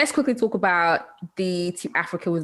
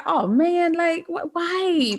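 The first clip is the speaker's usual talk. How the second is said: mock disappointment; 9 semitones higher, much slower than usual. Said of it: "I was like".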